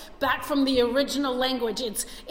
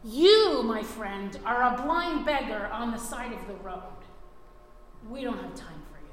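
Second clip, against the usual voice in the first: scornful crowd scolding the beggar; rebuking. Retold or imitated. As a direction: put him in his place, mildly acted. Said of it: "So they rebuked him".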